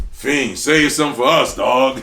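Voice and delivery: loud, high, hollered encouragement; imitated Styles P. Styles hyping up Fiend in the recording session, loud holler. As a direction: holler it like a hype man egging on a rapper. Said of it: "be like".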